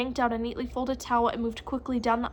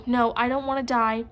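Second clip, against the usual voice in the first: desperate plea; 5 dB louder than usual. Acted. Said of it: "with more emotion than I'd ever heard him show".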